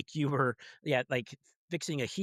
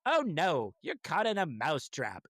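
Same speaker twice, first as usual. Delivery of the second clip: put-on Jersey kid accent. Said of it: "that voice is supposed to go".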